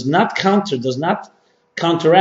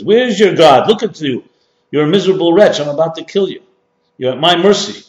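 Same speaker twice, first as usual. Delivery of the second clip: mocking, louder retold guard taunting his victim; a sermon retelling of a cruel guard's loud mocking taunt; angry Nazi guard; 3 semitones higher, 4 dB louder than usual. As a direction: jeer at the prisoner with harsh scorn. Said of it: "gets very angry and says".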